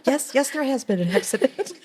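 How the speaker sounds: high-pitched words through laughter; laughing retort. Retold or imitated. Mother answering son's obvious announcement, laughing. Laughs at her own retold reply.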